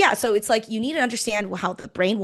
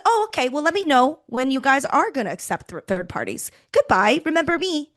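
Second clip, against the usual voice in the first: mock meek giving up; 5 semitones higher than usual. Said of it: "most people say".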